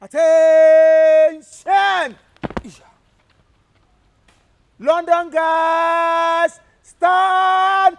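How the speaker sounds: long, drawn-out, loud drill shouts; drill commands. Acted. Captain bellowing parade commands at the London guys.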